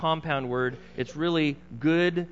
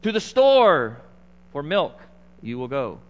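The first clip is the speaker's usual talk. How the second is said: wife ordering; 7 dB louder than usual. Retold or imitated. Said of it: "if it's your wife".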